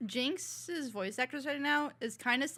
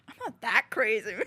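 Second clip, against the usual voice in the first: laughing quote; 5 dB louder than usual. Retold or imitated. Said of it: "Even Jinx is like".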